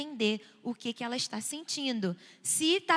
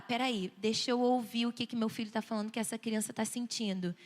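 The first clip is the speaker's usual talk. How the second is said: lower, softened reflective voice; attentive parent; 4 semitones lower than usual. Acted. Parent pausing to hear the child, gentle and low.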